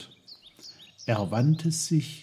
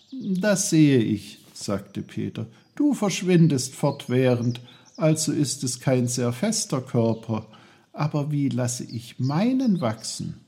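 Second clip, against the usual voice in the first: put-on lightly raised, curious boy's voice; a hint of a higher, friendly boy; young Peter, eager; 4 semitones higher than usual. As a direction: ask it politely like a boy talking to trees.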